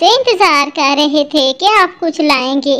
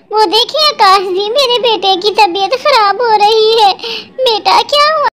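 panicked mother; 3 semitones higher than usual. Acted. Wife panics over flooding, sick son.

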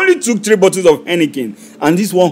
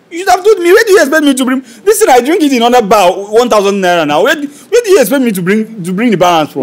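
loud, high, furious protest at the waiter; angry outburst; 7 semitones higher, 6 dB louder than usual. Acted. Customer yelling at the waiter over his bill. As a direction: shout it out, outraged at the price.

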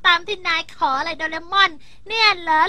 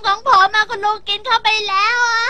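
whiny complaint; 3 semitones higher, 6 dB louder than usual. Acted. Complaining candy was eaten.

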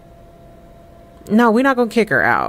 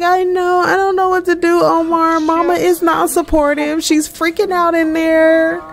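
voicing Amina; 9 semitones higher than usual. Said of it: "She's like".

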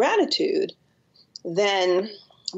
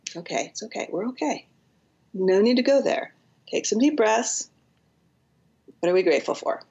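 gently calm a frightened little one; whispered comfort, then brighter encouragement; soothing a little kid; 3 semitones higher than usual. Shown as a demonstration. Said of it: "say that to a little kid inside yourself".

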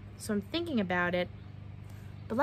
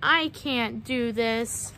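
discouraged; much slower than usual. Acted. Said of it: "she would say".

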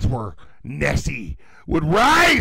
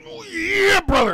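much higher, louder oh yeah; hammed-up wrestler cry; 7 dB louder than usual. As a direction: Macho Man style oh yeah. Wrestler catchphrase.

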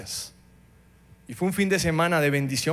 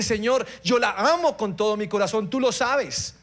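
tearful prayer; 4 semitones higher than usual. Retold or imitated. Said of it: "Y le dije entre lágrimas".

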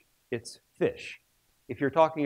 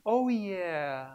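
daughter's reply; 4 semitones higher, 4 dB quieter than usual. Retold or imitated. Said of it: "she went".

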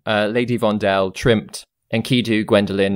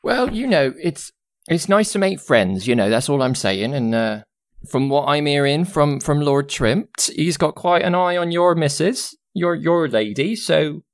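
higher-pitched chatty servant woman; Jazana, gossipy; 4 semitones higher than usual. Acted. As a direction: confide gossip in a lilting character voice.

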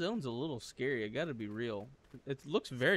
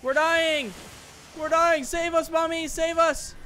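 much higher and louder, hammed-up kids pleading; mock children begging; 13 semitones higher, 6 dB louder than usual. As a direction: wail to Mom like helpless little kids. Pretend kids begging mom in game.

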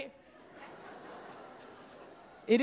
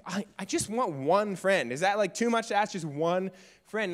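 pleading; 3 semitones lower than usual. Retold or imitated. Crying alone after school.

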